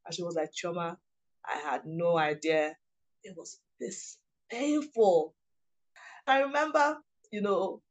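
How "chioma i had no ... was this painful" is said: slow, subdued disbelief; drawn-out, softly pained admission; retold sorrowful realization. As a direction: imitate a grieving friend's quiet confession. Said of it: "as in she cried and cried".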